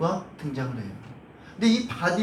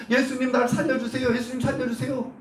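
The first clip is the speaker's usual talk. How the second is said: retold crying out; 4 semitones higher than usual. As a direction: imitate a beggar calling out for help. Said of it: "막 소리칩니다". (높은 소리로 애원하는 흉내)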